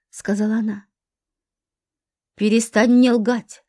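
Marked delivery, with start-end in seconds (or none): 2.4-3.6 shouting. Acted. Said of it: "закричал он".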